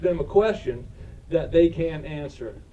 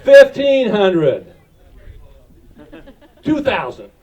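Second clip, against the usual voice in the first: auctioneer; 3 semitones higher, 7 dB louder than usual. Real, not acted. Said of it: "I feel like an auctioneer".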